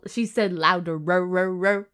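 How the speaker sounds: "louderer" slowed, with extra r-r-r syllables on the end; stretched-out ending. Shown as a demonstration. Reader plays up the silly word "louderer", stretching its repeated -er ending.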